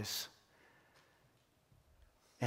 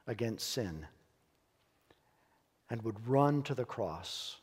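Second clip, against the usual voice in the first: closing prayer. Acted.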